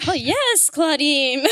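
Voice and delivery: admiring exclamation. Retold or imitated. Fan reacts to his wardrobe choices, admiring exclamation. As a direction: savour it like an appreciative fan. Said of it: "I'm like".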